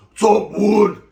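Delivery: loud, cheery "what's up" hail; lightly voiced yard greeting; greeting a Wood. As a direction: call out across the yard to a white inmate. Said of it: "they don't all talk like that".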